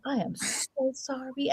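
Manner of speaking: slow, quiet, overdone sorry; played-up apology. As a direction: lay the apology on thick and slow. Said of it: "they play it up".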